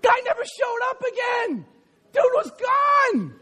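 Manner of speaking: dramatic exclaim. Acted. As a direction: belt the ending for effect. Dramatic payoff of a story.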